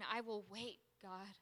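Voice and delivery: soft, settled surrender; hushed, tender promise; embracing trust. Acted. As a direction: quietly yield to God. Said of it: "to embracing".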